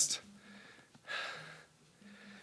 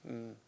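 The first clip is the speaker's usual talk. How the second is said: small, low "mm" of a moan; soft moan; 4 semitones lower, 17 dB quieter than usual. Acted. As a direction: moan faintly, half asleep. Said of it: "and she moans".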